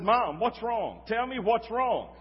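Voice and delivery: a retold anxious son on the phone; worried pleading. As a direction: beg her to tell you, slowly. Worried son asks crying mother.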